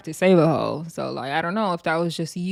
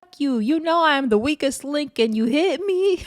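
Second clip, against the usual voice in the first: higher-pitched aggrieved imitation; mock indignation; 8 semitones higher than usual. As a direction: imitate a wronged friend protesting. Acts out wounded friend's retort.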